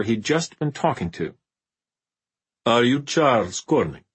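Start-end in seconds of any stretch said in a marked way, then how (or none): 2.6-4.0 eerie vampire voice. Acted. Vampire possessed, new voice.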